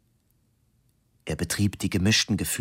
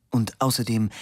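yawning; 2 semitones higher than usual. Acted. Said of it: "er gähnte herzzerreißend".

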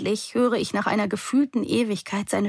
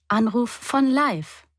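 Siri; 5 semitones higher, slower than usual. A narrator's reading. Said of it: "sagt Siri".

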